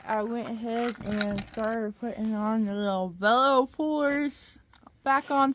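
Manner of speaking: talking around a screwdriver; screwdriver in mouth. Real, not acted. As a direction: speak with a tool between teeth. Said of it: "I got a screwdriver in my mouth".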